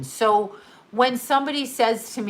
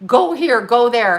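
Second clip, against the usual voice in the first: mock fearful; 4 dB louder than usual. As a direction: pretend alarm that rises into loud commands. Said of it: "And people became fearful".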